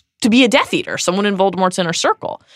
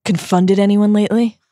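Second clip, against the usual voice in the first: hammy stage actor; 3 semitones higher, 3 dB louder than usual. Acted. Host hams up playful character bit.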